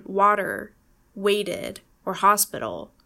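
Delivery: water and waited with D-like Ts; American flap in water, waited, hospital; flapped T. Shown as a demonstration. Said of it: "We use this for most T sounds".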